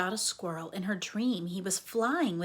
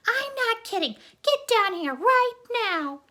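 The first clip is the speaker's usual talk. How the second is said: higher loud scolding; angry mother; 9 dB louder than usual. Acted. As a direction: insist loudly, no more waiting. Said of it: "her mother shouted".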